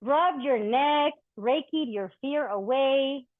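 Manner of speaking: rhythmic poetry reading, bitter and tender; spoken-word poem. Acted. Poet addressing an ex's dog on stage, wry spoken-word delivery. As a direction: speak to the ex's dog as a verse, half hurt, half joking.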